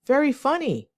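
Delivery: sincerely amused, high and lively; genuine. Shown as a demonstration. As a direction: say it like you truly find it funny. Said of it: "will be a genuine tone".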